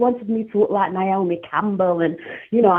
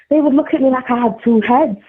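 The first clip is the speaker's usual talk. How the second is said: laughing through the words, pitch up; half-laughing as she tells it; amused, laughing as she speaks; 6 semitones higher than usual. Real, not acted. Amused retelling of reactions.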